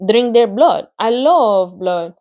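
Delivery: a touch thinner and sweeter spider voice; thin, pleasant voice. Acted. Charlotte tells Wilbur she drinks blood, thin and pleasant. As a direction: savour the word blood sweetly. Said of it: "her pleasant, thin voice grew even thinner".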